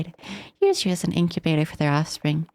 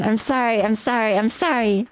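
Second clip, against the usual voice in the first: a hint of pleading, higher, over and over; repeated apologizing; 4 semitones higher than usual. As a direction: apologise on a loop. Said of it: "And again and again".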